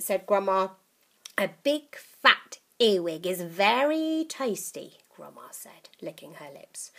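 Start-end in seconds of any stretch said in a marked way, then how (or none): 1.4-5.0 put-on old witch voice. Grandma voiced.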